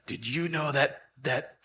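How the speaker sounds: stern farmer. Retold or imitated. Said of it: "He's like".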